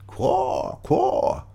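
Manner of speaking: very high cawing crow. A narrator's reading. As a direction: screech it like a crow. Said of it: "cried the crow".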